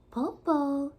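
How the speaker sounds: high, loud call down from the treetop. A narrator's reading. Shang calling down from the treetop to the wolf. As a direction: call down to grandmother. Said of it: "Shang called out".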